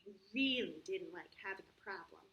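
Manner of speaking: put-on storybook narration for children; story reading. A narrator's reading. Teacher reads the problem story to the kids, storybook voice. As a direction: read it like a picture book aloud.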